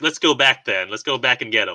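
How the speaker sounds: ordinary delivery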